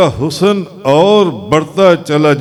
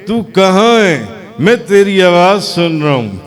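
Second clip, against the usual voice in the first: a hint of a searching plea; Moses calling out. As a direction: call out to the unseen voice. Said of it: "موسیٰ علیہ السلام نے کہا". (ان دیکھی آواز کو ہلکی سی پکار)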